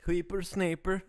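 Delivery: a hint of a crotchety old man; squeaky old man. Echoing the old-man word.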